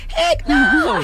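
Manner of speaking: laughing through a scoffing "heck no". Real, not acted. Mocking idea of stars paying.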